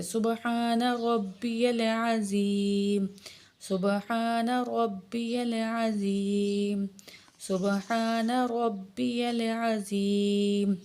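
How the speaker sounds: slow, measured tasbih; prayer recitation. Shown as a demonstration. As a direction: recite it three times calmly. Ruku tasbih thrice.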